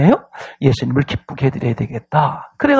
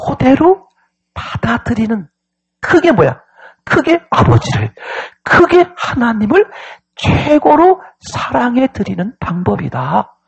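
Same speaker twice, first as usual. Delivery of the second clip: higher, punched sermon delivery; emphatic preaching; 8 semitones higher than usual. Real, not acted. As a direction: drive each phrase home to the congregation. Preaches with full force.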